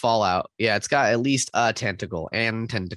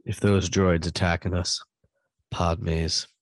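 a hint of Jar Jar; lightly voiced Gungan; 3 semitones lower than usual. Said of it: "Jar Jar quotes in your best".

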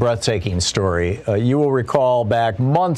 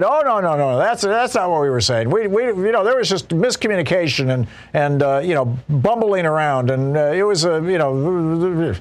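mock flustered denial; 3 semitones higher than usual. General testifying before Congress with no answer, mock flustered. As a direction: imitate a stammering backpedal, starting higher. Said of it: "they really had no answer".

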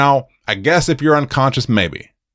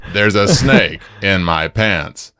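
slow realization; 3 semitones lower, slower than usual. Retold or imitated. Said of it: "Oh, I get it".

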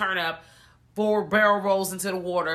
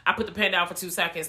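indignant retort; faster than usual. Retold or imitated. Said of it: "but I'm saying that".

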